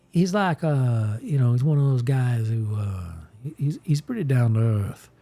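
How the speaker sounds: light Southern Mississippi voice for Ransom Bash; Mississippi accent. Acted. Streamer narrating his Southern character, in a light Mississippi accent. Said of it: "he kinda talks like this".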